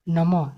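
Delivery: namah with "ha" at the end; final visarga sounded. Shown as a demonstration. Teacher giving an example of visarga, namah ending on "ha". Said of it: "इसमें भी अ आ रहा है".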